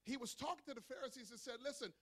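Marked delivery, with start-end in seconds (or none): 1.6-1.9 slow, deliberate preacher's delivery; emphatic scripture reading. Acted. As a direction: stretch the key words as you declaim. Reads scripture aloud, preaching.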